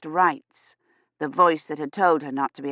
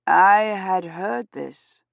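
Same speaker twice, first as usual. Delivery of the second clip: lightly voiced priest; much slower than usual.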